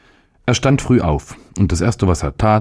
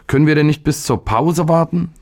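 high, whining plea; wheedling, sorry-for-himself question, pitched high; plaintive boy; 11 semitones higher than usual. A narrator's reading. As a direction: plead pitifully like a small boy. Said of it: "fragte der Junge wehleidig".

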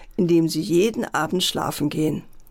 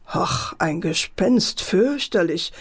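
amused chuckle; slower than usual. Acted. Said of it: "schmunzelte der Vater".

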